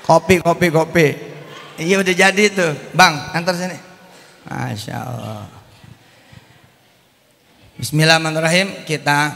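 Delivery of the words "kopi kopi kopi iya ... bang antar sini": louder call across the room; louder call to the server. Real, not acted. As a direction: call for the coffee to be brought. Calling out for coffee.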